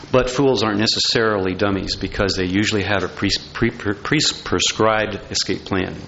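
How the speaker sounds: stuck on a word, repeating; stumbling over pre-, pre-; tongue-tied. Real, not acted. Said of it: "Tongue-tied there".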